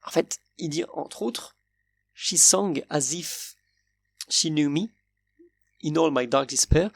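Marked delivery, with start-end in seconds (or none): 2.1-6.9 put-on song lyric quoted in a French-accented English, slowed at the start. Quoting the song lyric to his viewers, in French-accented English. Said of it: "pardon pour mon accent".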